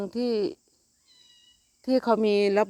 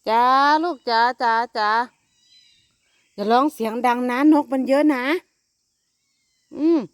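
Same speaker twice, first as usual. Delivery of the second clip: high, louder sing-song coo; calling the kittens; 6 semitones higher, 8 dB louder than usual. Real, not acted. Mother calling her kittens about the birds, high loud coo. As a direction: croon to hush the kittens.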